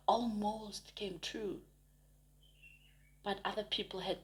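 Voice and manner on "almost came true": whisper. Real, not acted. Tarot reader stressing missed chances.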